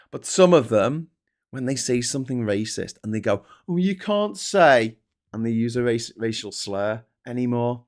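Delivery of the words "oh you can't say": imitating an old bigot. Imitating racist elder.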